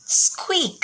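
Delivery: high squeak on the word; a high mouse-like squeak; squeaky mouse word. Shown as a demonstration. Teacher mimics mouse squeak.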